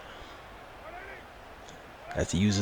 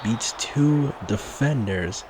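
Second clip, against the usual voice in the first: higher and louder, building with the big play; excited play-by-play; 7 semitones higher, 4 dB louder than usual. Real, not acted. Big pass play called live.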